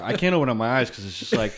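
laughing with streaming eyes; laughing through tears. Real, not acted. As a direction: laugh while the spice burns. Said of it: "I'm crying".

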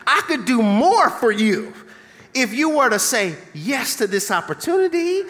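lightly voiced wheedling prayer; bargaining prayer. Believer bargaining with God, mild wheedling. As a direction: coax God into a yes. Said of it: "some of us have prayed like this".

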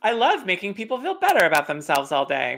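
sugary, sing-song parody of a stock answer; mock cheesy answer. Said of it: "that's a very standard".

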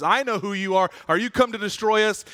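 the possessed man speaks with another voice; demon voice. Acted. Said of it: "speaking in a different voice".

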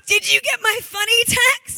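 high, weepy question; imitating crying. Friend asking about the text, mock crying. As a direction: mimic her tearful plea. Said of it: "Literally, she's crying".

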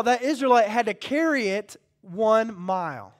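loud, driving Bible explanation; preacher hammering out the background; forceful preaching. Acted. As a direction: build the list with rising pulpit force.

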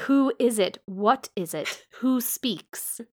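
high-pitched, urgent string of questions; urgent questioning. A narrator's reading. Blind man questions an unseen speaker, urgent. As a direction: demand to know who is there.

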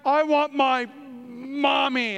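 a drawn-out, slow whine for mommy, lightly imitated; mock child's whine. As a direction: play the son wanting his mom, slowly pleading. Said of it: "all of a sudden he cries".

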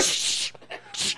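sharp unvoiced shush. Aunt shushing kids during her soaps, sharp hiss. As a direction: hush them hard with a shh. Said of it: "She be like".

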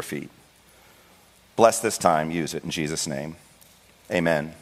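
earnest pulpit prayer, steady and sincere; heartfelt closing-in-prayer voice; pastor's prayer. Acted. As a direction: pray it over the congregation. Pastor prays before sermon.

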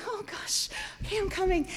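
soft, high, flustered giving in; reluctant surrender. Retold or imitated. Daughter following dad into the boat, reluctant surrender. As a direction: give in quietly and unwillingly.

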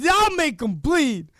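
high, slow wrestler threat; mock-menacing imitation; Scott Steiner. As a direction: draw it out like a raving promo. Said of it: "how do you".

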